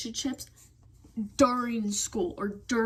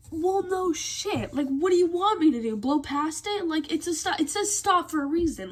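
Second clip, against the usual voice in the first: higher, incredulous and sarcastic; sarcastic exasperation; 6 semitones higher than usual. Real, not acted. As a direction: scoff at the obvious advice, pitched up. Annoyed rant about mom's backseat driving.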